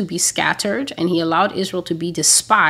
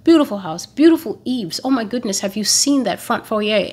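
a lightly voiced gushing house admirer; mock-gush over someone's lovely house, a little higher; 3 semitones higher than usual. Preacher mimics a guest praising the house, lightly voiced gushing. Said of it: "somebody comes and just praise the house".

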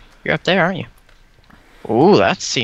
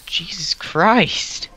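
slow high awed whisper; 8 semitones higher, much slower than usual. Real, not acted. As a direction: breathe it out in dread. Many mobs ahead.

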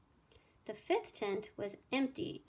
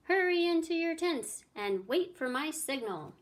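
raised, higher urgent voice; yelled orders; 6 semitones higher, 5 dB louder than usual. A narrator's reading. Host sending guests into their tents, yelling. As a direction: call out orders to a crowd. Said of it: "yelled Circumference".

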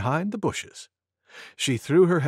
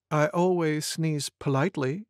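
prim; 4 dB quieter than usual. Acted. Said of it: "said Deer with a sniff".

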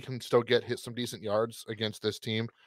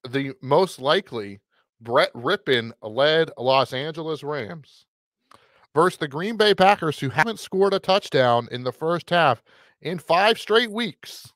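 emphatic, higher-pitched matchup billing; mock hype; 4 semitones higher than usual. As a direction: oversell a dull game like a big announcement. Mock hype after being teased.

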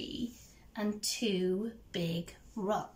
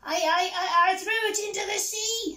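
nervous stammer; 9 semitones higher, 4 dB louder than usual. A narrator's reading. Troll confesses to angry pirates.

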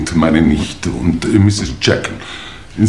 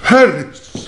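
alarmed call; 10 semitones higher than usual. Acted. Lord calling the butler once more, alarmed. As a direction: call him again in alarm.

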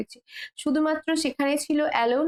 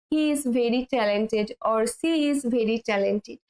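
slow, clear teacher's model; slow model sentence; 2 semitones lower, much slower than usual. Shown as a demonstration. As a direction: say it very slowly and clearly for learners. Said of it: "teacher models slow English". (ধীরে স্পষ্ট করে বলা)

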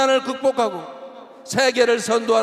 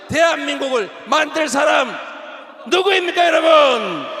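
rallying cry; 4 semitones higher than usual. Real, not acted. Rhetorical question to rally crowd.

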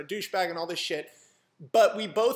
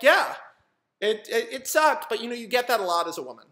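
higher, louder mock of her voice, quick; voicing the girl; 4 semitones higher, 5 dB louder than usual. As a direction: breeze through her sympathy line. Voicing the girl's reply.

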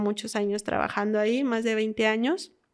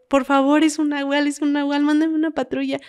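panicked caller; 4 semitones higher, 3 dB louder than usual. Retold or imitated. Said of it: "casi quería llorar porque se le cortaba la voz".

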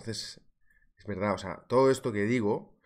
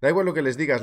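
ordinary delivery

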